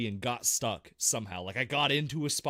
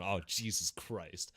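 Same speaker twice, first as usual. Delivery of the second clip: despairing mutter; 6 semitones lower, 7 dB quieter, slower than usual. Retold or imitated. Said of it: "I'm, like, in tears".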